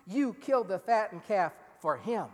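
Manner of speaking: elder son railing at his father for the feast; angry protest. Retold or imitated. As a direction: hammer "yours" with resentment. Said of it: "elder son's angry outburst".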